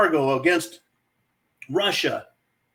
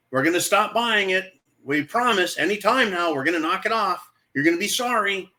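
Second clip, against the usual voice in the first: mock empty threat; 4 semitones higher than usual. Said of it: "We're saying".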